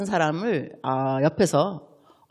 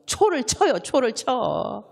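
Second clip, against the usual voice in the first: slow emphasis; 3 semitones higher, much slower than usual. Shown as a demonstration. Repeating phrase slowly for emphasis.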